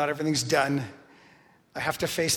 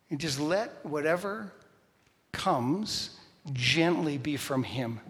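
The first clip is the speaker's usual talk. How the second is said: gentle; slower than usual. Shown as a demonstration.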